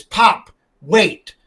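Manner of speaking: lightly voiced little girl calling; a hint of a small girl's urgent call; child's plea. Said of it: "and she says".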